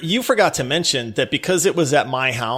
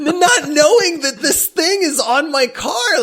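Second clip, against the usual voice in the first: can't stop laughing as you say it; real laughter through the words; 12 semitones higher than usual. Real, not acted. Laughing at his own story.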